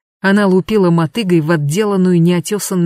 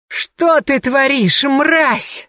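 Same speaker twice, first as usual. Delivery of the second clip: put-on a much higher, slow drunken yelling; 8 semitones higher, much slower than usual. Vasilisa yelling drunk at her rival, higher and slow. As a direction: drag the insult out drunk and furious. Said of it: "заорала она пьяно".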